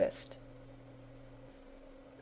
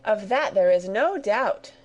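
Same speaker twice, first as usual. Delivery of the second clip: exclaiming; 2 semitones higher, 4 dB louder than usual. Acted. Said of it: "cried Sarah".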